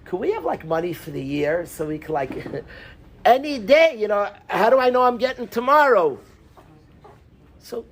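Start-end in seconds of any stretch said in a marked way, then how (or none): 0.0-6.2 anxious, pleading son-in-law asking for the year's money; a worried son-in-law pleading with his father-in-law; freaked out. Retold or imitated. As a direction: beg nervously for a year's worth up front. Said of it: "The guy would freak out".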